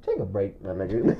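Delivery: low, hushed retold plea; weary time-out call. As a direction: imitate a stunned friend quietly calling a halt. Acts out friend needing a time out.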